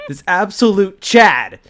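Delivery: reading through giggles, rising high; laughing while reading. Real, not acted. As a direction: voice climbing into laughter.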